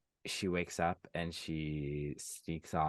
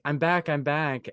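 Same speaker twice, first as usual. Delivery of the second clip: put-on higher, louder, slowed calls of a girl running back; excited calling; 9 semitones higher, 7 dB louder than usual. Lucy running back calling to her siblings, excited. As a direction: call it out breathlessly, slow and loud.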